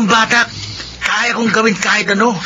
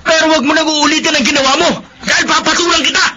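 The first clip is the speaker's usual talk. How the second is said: threat; 5 semitones higher than usual. Acted. Brother threatens sister.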